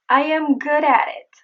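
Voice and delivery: "at it" joined with a tapped T; linked flap T. Shown as a demonstration. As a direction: run "at" into "it". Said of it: "The same goes for".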